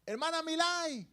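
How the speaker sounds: llamada en tono más alto; llama a una hermana que está ocupada; llamando a alguien. Shown as a demonstration. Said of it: "vengo yo y yo le llamo". (llamando a alguien por su nombre)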